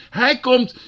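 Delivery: high, loud proclamation; ecstatic cry. Real, not acted. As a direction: announce his coming triumphantly.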